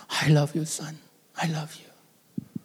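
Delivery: slow whisper fading almost to nothing; father repeating comfort to his crying child. Retold or imitated. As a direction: soothe him over and over. Repeating love to crying son.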